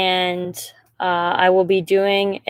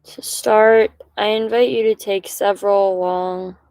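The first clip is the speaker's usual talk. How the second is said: calm, measured meditation guide, pausing between phrases; guided meditation. Acted. Guide inviting listeners to settle and breathe, calm meditation voice. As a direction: lead them gently, leaving long silences between instructions.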